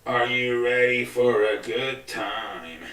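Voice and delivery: slow, drawn-out ring-announcer call; hype announcer intro. Pretend. Host to viewers, slow drawn-out announcer hype. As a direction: hype the crowd like a show opener.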